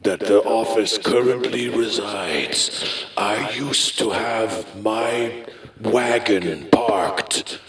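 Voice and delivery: slow, lightly spooky ghost voice; a hint of an old ghost; ghostly echo. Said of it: "I am the ghost of Charles".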